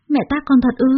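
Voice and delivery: can't believe she was slapped; a stunned daughter asks her mother; shocked disbelief. Acted. Daughter shocked after slap.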